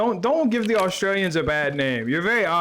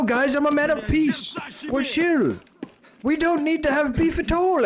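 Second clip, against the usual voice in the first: mock-pleading, raised high voice; high-pitched placating; 8 semitones higher than usual. Player talks scavs out of a fight, high-pitched placating. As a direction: plead innocence in a high, light voice.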